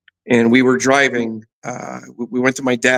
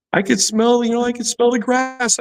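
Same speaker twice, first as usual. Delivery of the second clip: voice breaking with emotion; 10 semitones higher than usual. Real, not acted. Overwhelmed recalling release from hospital.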